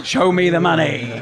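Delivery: joking jab at a teammate; laughing. Real, not acted. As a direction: tease him through laughter. Joking about a transfer.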